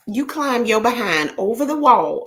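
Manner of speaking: ordinary talk, nothing marked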